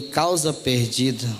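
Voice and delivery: low, slow echo of disbelief; a low, slow, stunned "Causa perdida?". Retold or imitated. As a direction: repeat it as if you can't believe it. Stunned at lawyer's verdict.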